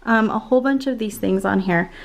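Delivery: slightly winded, out of breath; talking while still out of breath. Real, not acted. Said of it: "Sorry, I'm so out of breath".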